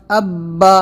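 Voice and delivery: "اب با" with a hard, held double b; firm tashdid. Shown as a demonstration. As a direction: press and hold the b in "اب با". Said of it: "سختی کے ساتھ میں".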